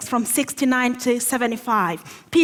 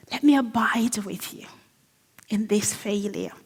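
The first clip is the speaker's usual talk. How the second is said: tender; 3 semitones lower, 4 dB quieter than usual. Acted. Jesus voiced comforting the guilty.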